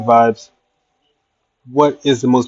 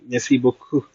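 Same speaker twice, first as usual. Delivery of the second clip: French accent; 5 dB quieter than usual. Shown as a demonstration. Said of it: "You said I have a great accent".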